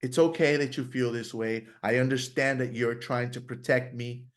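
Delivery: gentle, softening reassurance to himself; calm the inner critic down kindly; soothing self-talk. Retold or imitated. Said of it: "You have to take a soft approach".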